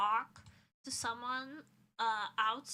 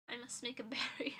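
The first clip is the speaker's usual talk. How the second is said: laughing whisper; 4 dB quieter, much faster than usual. Real, not acted.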